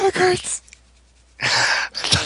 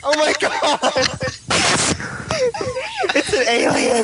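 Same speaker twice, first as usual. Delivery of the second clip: excited; 7 semitones higher than usual. Real, not acted. Reacting to alien voice.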